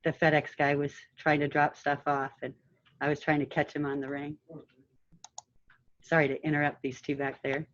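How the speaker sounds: muffled behind a mask; talking through a face mask. Real, not acted. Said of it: "Hard to talk through a mask".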